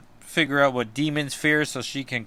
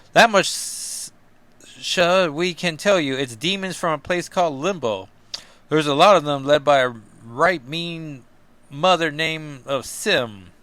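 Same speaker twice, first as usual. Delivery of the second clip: put-on Kentucky accent. Sam telling Cap about the Limbo demons, in a light mock Kentucky accent. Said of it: "I don't know what accent I'm doing".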